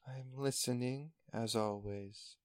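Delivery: soft, slow, distant whisper of the ocean. Acted. Ocean answering Q's hand in the water, soft and slow. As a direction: murmur it like the sea itself speaking. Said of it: "a voice say".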